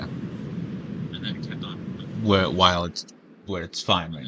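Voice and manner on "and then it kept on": slow breathy whisper, no voice; whispered slowly. Shown as a demonstration. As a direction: whisper it, dragging each word.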